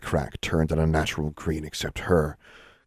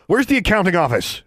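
loud, high demand; demanding shout; 12 semitones higher, 5 dB louder than usual. Acted. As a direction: bark the question at her. Interrogating a dangling witch.

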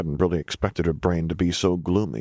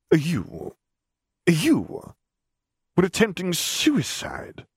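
slow, high, stunned disbelief; incredulous man; 11 semitones higher, much slower than usual. A narrator's reading. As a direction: stammer it out, thrown off balance. The man, shocked questioning.

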